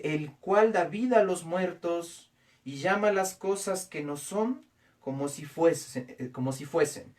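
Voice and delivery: verse read again slowly, each phrase set apart; slow reread. Shown as a demonstration. Pastor has congregation reread Romans 4:17, slow emphatic reading. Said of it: "léalo nuevamente".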